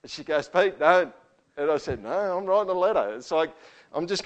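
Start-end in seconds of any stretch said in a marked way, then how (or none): 0.5-1.1 higher, louder pleading "Pete, don't"; a wife stopping her husband; wife's warning. Retold or imitated. Wife warning him not to. 2.0-3.1 higher, louder insistence; stubborn insistence. Retold or imitated. Insisting against wife.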